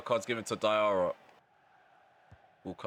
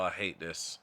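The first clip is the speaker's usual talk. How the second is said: normal talking voice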